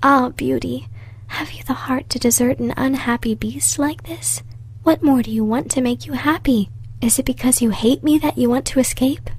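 a mild miserable plea from the beast; an unhappy beast begging her not to leave; miserable cry. Acted. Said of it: "cried out miserably".

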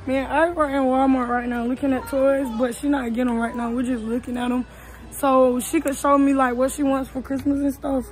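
muffled behind a face mask; through a face mask. Real, not acted. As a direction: talk through a cloth mask. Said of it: "don't mind my mask".

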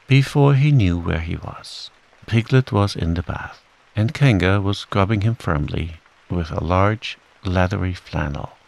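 usual speaking voice

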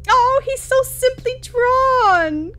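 slow, high, loud gushing. Real, not acted. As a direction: swoon over him slowly. Gushing over character art.

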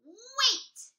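loud, high stop call; troll shout. Acted. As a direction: halt him like a pushy troll. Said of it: "said the troll".

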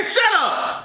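retold text outburst, voice jumping up; mock all-caps exclamation. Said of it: "All capital letters".

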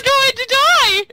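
high, loud, drawn-out threat; shouted threat. Real, not acted. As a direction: yell it high and slow. Threatens a player in game.

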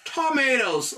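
tomatoes, said slowly and clearly with a tapped t; model pronunciation. Shown as a demonstration. Teacher modelling the English word tomatoes. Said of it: "Ou e kòman pwononse".

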